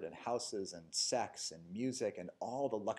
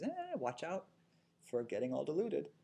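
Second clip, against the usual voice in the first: voicing mindfulness; 7 semitones higher than usual. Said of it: "So mindfulness says".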